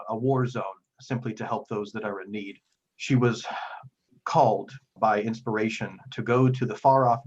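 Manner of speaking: lightly voiced grave cleric, pausing heavily; weighty, formal plea with emphatic phrase openings; solemn Father figure. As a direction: confide painful news with measured earnestness. Game master voices troubled Father Geno.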